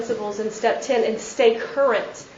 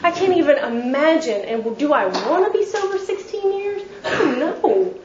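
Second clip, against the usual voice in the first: incredulous newcomer; 3 semitones higher than usual. Retold or imitated. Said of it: "I'm like".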